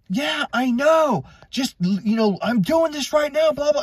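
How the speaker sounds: high husband's holler, retold; imitated yelling. Husband calling back to his wife inside, imitated yell. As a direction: call back impatiently, acting out an annoyed husband. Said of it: "What is he yelling at his wife".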